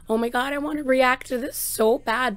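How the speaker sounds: blurting out how badly she wants it; eager. To viewers, her own eager wish, loud excited.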